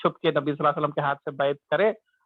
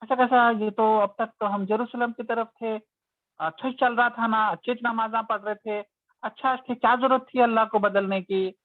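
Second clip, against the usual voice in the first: upset protest; 3 semitones higher than usual. Retold or imitated. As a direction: voice the flustered believers objecting. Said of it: "एकदम परेशान हो गए".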